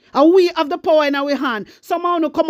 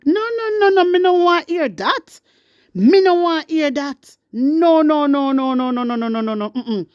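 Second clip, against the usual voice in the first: emphatic refusal. Real, not acted. Speaker rejecting complaints from the viewers, emphatic and insistent refusal. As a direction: refuse firmly, letting the pitch sink steadily.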